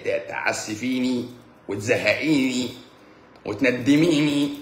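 mock scolding. Scolding an annoyed viewer.

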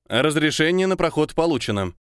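creaky synthesized voice through a speaker; old speech synthesizer. Acted. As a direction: squeak it out like an old machine. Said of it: "проскрипел тот же голос".

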